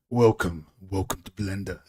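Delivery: lightly imitated Russian-accented tutorial host; a hint of Russian accent; attempted Russian accent. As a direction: have a go at mimicking a deep-voiced Russian, lightly. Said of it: "I always end up sounding Russian".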